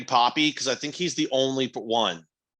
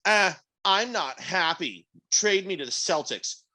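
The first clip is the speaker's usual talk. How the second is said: higher, slow mock pout; mock sulky diva; 5 semitones higher, slower than usual. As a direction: whine it like a pampered star. Acting out player's contract demands.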